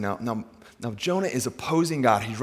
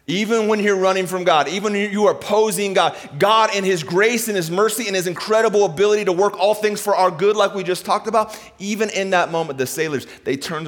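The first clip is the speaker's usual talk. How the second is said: raised, driving preacher's delivery; impassioned preaching; 7 semitones higher, 5 dB louder than usual. Real, not acted. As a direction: press each clause home to the congregation. Preaches with full force.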